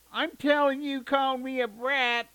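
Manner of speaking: high, loud, slow tattling threat; sing-song bratty warning; threatening little sister. A narrator's reading. Little sister threatening to tell on her brother. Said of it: "she threatened".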